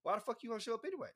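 a giggling thought in his head; laughing inner voice. Retold or imitated. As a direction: let your inner voice laugh through it. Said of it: "nigga in the back of my head was like".

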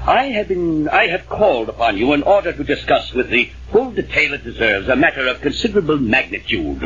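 pompous formal address; dignified. Acted. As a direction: put on serious dignity to win his endorsement. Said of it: "now, serious and dignified".

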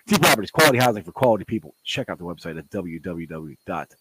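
upbeat sponsor read. Acted. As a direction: read it like a radio spot. Reads sponsor ad again.

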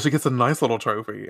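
ordinary talk, nothing marked

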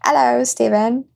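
badly faked medieval accent greeting; mock Elden Ring accent; bad put-on accent. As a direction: say hello in a hammy fantasy-game accent. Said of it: "do the bad accent".

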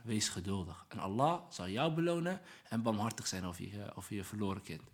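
low, soft reassurance; softly voiced comfort in retelling; gentle consoling. Prophet consoles a grieving mother.

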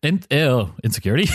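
stumbling attempt at a Virginian accent. Shown as a demonstration. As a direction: try the word in Virginian accent. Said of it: "my best, um, Virginian accent".

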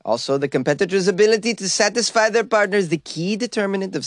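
lightly put-on mock Swedish accent; Dragan's Swedish accent. Podcast host reading a Swedish sex official's quote, mock Swedish accent. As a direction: read the quote in a hint of a hammed-up Swedish accent. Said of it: "How about that for a perfect Swedish accent".

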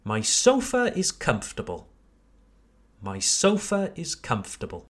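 "comfortable" as KUMF-tə-bəl within the sentence; repeat-after-me model. Shown as a demonstration. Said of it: "Repeat after me".

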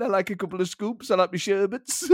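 lightly put-on German pundit, amused; laughing impression of the pundit; Didi Hamann. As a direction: boast cheerfully in a German accent. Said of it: "That's a really good Didi Hamann".

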